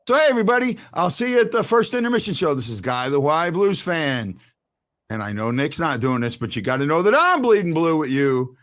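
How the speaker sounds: lively host's sign-off, dropping low at the end; show sign-off. Acted. Host signing off to Blues fans, showy sign-off. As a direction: wrap up the show, stretching out the final words.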